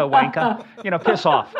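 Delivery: jokey fake Aussie accent; mock Australian accent. Host quoting slang from down there, mock Australian accent. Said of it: "as I say down there".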